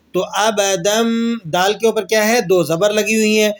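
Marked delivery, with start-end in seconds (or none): 0.2-1.3 slow أَبَدًا closing on a held m; iqlab ending. Shown as a demonstration. Teacher pointing at the word, iqlab ending. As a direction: say أَبَدًا as "abadammm". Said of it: "میم کی آواز سے اقلاب کر دیں گے".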